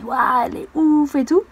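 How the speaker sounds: mock gushing fan. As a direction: play a starry-eyed fan.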